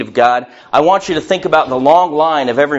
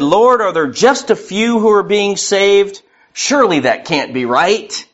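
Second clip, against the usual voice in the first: incredulous disbelief; 3 semitones higher than usual. Retold or imitated. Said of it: "You can hear the tone in their voice".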